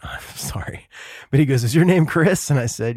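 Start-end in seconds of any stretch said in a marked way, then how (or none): 1.6-2.5 higher, louder mock Peruvian accent; bad Lima accent. Guard checking the visitor's name, badly faked Lima accent. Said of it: "person from Lima, like, accent".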